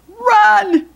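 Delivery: high, loud yell to flee; urgent cry. Acted. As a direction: shout it as the alarm to run. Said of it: "cried George".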